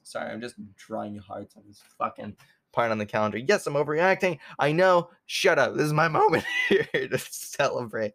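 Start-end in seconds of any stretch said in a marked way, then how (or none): 3.4-8.1 bubbling over with joy; giddy excitement. Real, not acted. Giddy overreacting celebration.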